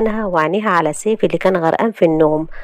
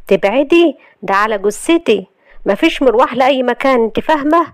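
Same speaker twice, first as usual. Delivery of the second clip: raised pitch, a touch of menace; angry refusal; 6 semitones higher than usual. Acted. Husband forbidding wife to leave, angry. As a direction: lay down the law, mildly heated. Grabs her arm, refuses departure.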